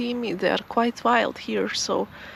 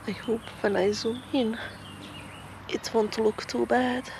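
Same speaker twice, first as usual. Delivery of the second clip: whispering; 8 dB quieter than usual. Real, not acted. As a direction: whisper so as not to disturb the bird. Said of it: "I don't know why I'm whispering".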